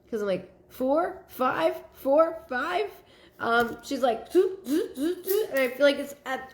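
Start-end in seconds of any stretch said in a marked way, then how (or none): 0.7-2.9 higher-pitched, questioning rise on each number; unsure counting. Acted. Acts out wavering between counts. 4.3-5.5 high, quick little zoot sounds; imitated popping noise. Imitates stickers popping up in row.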